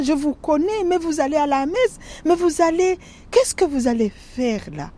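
retold tearful plea to the killers; tearful pleading. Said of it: "je commence à pleurer".

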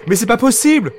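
cri aigu et fort, paniqué; crie. Acted. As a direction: hurle d'incrédulité, voix qui grimpe. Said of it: "crie Rémi". (Rémi crie, paniqué devant le monstre)

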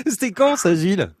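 asked high through a laugh. Real, not acted. Host amused, asking the caller when. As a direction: still giggling as she asks.

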